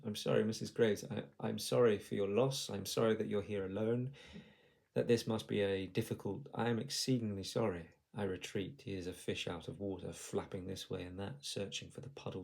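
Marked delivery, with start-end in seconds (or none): 0.1-7.9 hurried doctor stumbling over apologies, louder; nervous over-apologizing doctor; a doctor caught off guard, apologizing too much; flustered apology. Acted.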